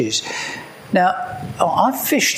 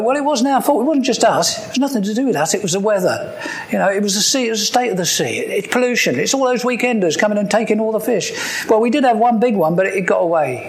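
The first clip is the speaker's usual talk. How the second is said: defensive excuses; 3 semitones higher, faster than usual. Retold or imitated. Fishermen making excuses.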